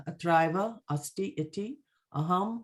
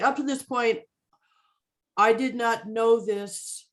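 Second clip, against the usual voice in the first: acting out the line; 4 semitones higher than usual. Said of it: "So what he's saying".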